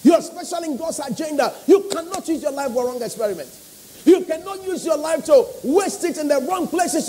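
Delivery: rising preacher's call to the congregation; earnest sermon delivery; preaching. Acted. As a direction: preach it with full conviction.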